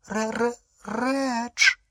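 high, halting gasp of a name; shocked stammer. A narrator's reading. Wife sees her real husband, shocked stammer.

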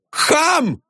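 high yelped shout; shouted insult. A narrator's reading. Viktor Mikhailovich shouts after the janitor. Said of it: "закричал Виктор Михайлович".

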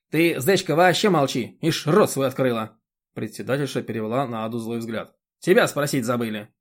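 a bossy chairwoman lecturing; indignant chairwoman. Acted.

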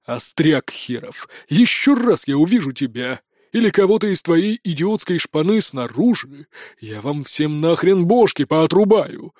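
slow, heavy threatening sheriff voice; menacing sheriff. Acted. Sheriff threatening the smart-mouthed prisoner, slow menace. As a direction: spell out the threat word by word.

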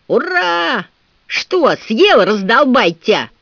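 high, loud gloating roar; growling cheer. A narrator's reading. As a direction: crow over the fallen captain. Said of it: "рычал Дикон". (громкое злорадное рычание)

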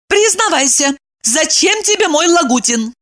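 high, demanding; hands on hips. A narrator's reading. Evdokia demands Kirillov confess. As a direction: interrogate him. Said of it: "подбоченясь, спросила".

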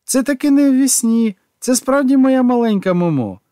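high, loud and delighted; can't believe his luck, bursting with joy; thrilled reunion voice; overjoyed. A narrator's reading.

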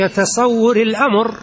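الأمر read out as al-amr, hamza sounded; corrected word الأمر. Shown as a demonstration. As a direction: say الأمر with a clear hamza before the mim, not المر. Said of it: "ما عندنا مر ولا حلو".

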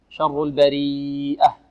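البريئة drawn out, ending in a clear H; clear final H. Shown as a demonstration. Teacher reciting البريئة for students, long vowel and clear final H. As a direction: stretch البريئة, then breathe out a distinct final H. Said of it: "والهاء نوضحها".

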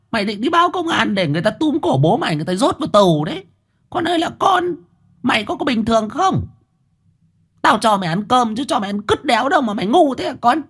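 mother scolding son for wanting to report father; angry scolding. Acted. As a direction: berate a foolish son with scorn. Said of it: "mụ Tâm đã giật mạnh tay rồi mắng".

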